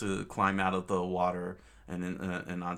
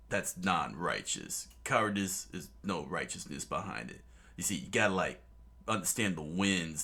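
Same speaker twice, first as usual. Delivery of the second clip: lightly voiced Luffy; 2 semitones lower than usual. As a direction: lecture like a chill dude. Luffy voice again.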